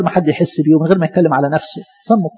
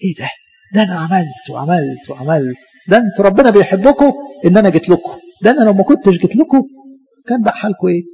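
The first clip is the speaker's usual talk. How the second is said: mock self-praise, half under the breath; proud Nehemiah. Preacher imitating Nehemiah bragging to the people, lightly voiced. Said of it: "كان ما أسهل نحمية يقعد كده".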